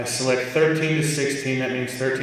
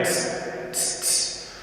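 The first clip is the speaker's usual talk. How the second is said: hissing tss; 7 dB quieter, much slower than usual. Shown as a demonstration. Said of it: "it still sounds kind of metallic".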